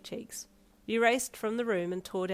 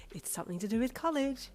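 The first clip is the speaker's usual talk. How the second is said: higher, excited squeal; 6 semitones higher than usual. Acted. Mother hinting at college news, squealing higher. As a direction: tease the surprise with a squeal. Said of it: "she squealed".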